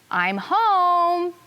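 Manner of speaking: high, drawn-out call of arrival; excited shout. Acted. Child narrator calls into the house on arriving, excited shout. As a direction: sing out the homecoming, long on the last word. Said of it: "and I shout".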